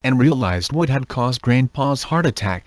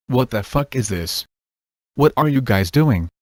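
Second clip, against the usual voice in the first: screamed. A narrator's reading. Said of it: "he screamed".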